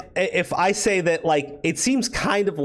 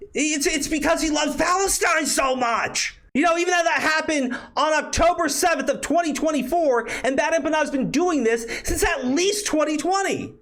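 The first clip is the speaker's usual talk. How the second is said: sarcastic outburst; 12 semitones higher than usual. Real, not acted. Sarcastic rant about the troll.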